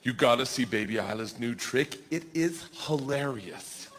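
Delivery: put-on whisper-eager little kid; lightly voiced excited child. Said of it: "George gets in my face and goes".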